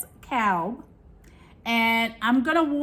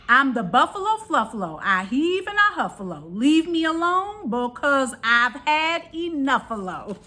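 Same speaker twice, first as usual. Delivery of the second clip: grumpy buffalo; 3 semitones higher than usual. Acted. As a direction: huff it out like a cranky buffalo. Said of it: "snarly and gnarly and tuffalo".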